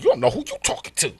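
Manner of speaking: mocking comeback; imitating the sister. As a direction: throw his line back at him. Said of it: "And she was like".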